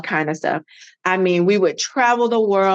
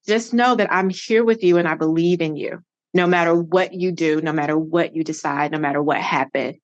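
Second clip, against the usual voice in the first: reassuring mom; 4 semitones lower than usual. Retold or imitated. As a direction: gently reassure her daughter. Mother reassuring in dream.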